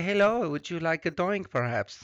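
a jokey German accent, lightly put on; mock German accent. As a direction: play a polite German host offering a doink. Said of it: "what accent is that?".

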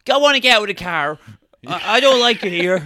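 hammed-up huffy protest; retold petulant woman. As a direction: play up a fussy whine to get out. Acting out woman leaving car petulantly.

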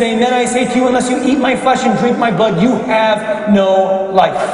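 firm, insistent solemn pronouncement; emphatic declaration. Acted. Jesus answers those doubting his flesh and blood, emphatic. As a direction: declare it forcefully, drawing out the ending.

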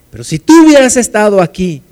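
complain, hitting "tú" hard; reproachful stress on tú. Acted. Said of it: "pero el reclamo es el mismo".

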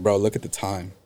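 low-key, stern boss imitation; understated imitation of a boss turning serious. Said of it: "took it to serious mode".

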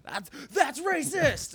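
high, drawn-out fake accusation; hammed-up scandalized protest, loud and slow; mock outrage. Jokey accusation, then "I'm just kidding.

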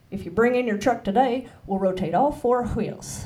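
put-on Texas TV commercial read in a Texan accent. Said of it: "read the lines in Texan".

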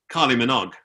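imitating a creepy stranger's repetitive chant; creepy man. Creepy bald man talks about pop star, imitated. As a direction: mimic an accented leering admirer. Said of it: "dude who was a bit creepier".

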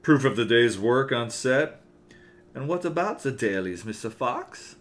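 evil cartoon German accent. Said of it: "evil cartoon German".

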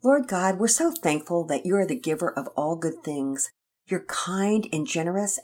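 gentle, earnest father's prayer; father praying aloud for his children. Acted. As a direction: pray it sincerely for the children. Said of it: "And then Daddy Peters prayed".

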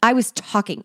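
a mock blunt eight cutting in; blunt retort. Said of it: "where it's like".

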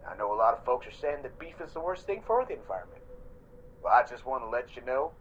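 hushed, low sales pitch; confidential whisper. Acted. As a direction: lean in and whisper to customers. Ad owner turns confidential.

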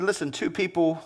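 a patient teacher telling a parable; a hint of Jesus speaking gently and low; lightly voiced Jesus. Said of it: "And Jesus said this, he said".

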